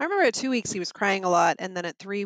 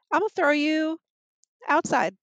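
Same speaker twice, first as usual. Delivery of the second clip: mock exasperation; 8 semitones higher, 4 dB louder than usual. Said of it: "And I was like".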